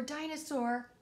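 second call pitched well up. Acted. Calling for the hidden dinosaur.

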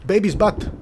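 a gleeful yelp at a silly find; excited shout. Real, not acted. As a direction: blurt out the discovery with delight. Finds a baby statue's butt.

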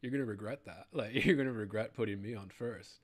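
cocky, laughing warning. Retold or imitated. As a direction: laugh through a confident boast.

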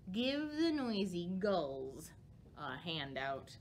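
put-on unhurried read-aloud for little kids; storybook reading. A narrator's reading. Librarian reads a bat story to children, gentle read-aloud.

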